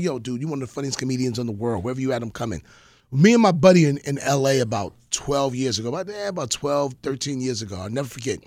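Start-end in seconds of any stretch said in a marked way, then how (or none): 0.0-2.6 low, quick, laid-back imitation of a basketball star; imitating Rod Strickland. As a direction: toss it off low and fast like a hyped fan. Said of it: "He was like".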